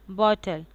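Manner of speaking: बॉटल with lips neutral on the vowel; बॉटल as a falling, standalone demo word. Shown as a demonstration. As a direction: model बॉटल carefully, lips relaxed and half open. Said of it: "That is usually made with lips neutral".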